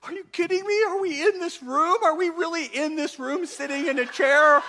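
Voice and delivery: hammed-up evangelist, fed up with sitting still; impatient evangelist. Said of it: "they're like".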